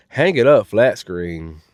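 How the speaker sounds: "Hang it up flat screen" said slowly and low; slow low repeat. Real, not acted. Host repeating the verdict to viewers, slow and low.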